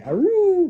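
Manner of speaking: high loud aroo sound; elephant call. Retold or imitated. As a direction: trumpet it up high. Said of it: "a book that says they say".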